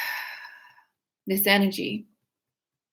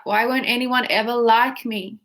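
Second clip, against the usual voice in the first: whiny. Shown as a demonstration. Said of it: "Say it like that".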